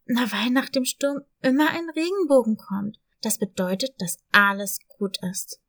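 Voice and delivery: put-on a warmly confident young dog; comforting puppy. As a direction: cheer her up with hope.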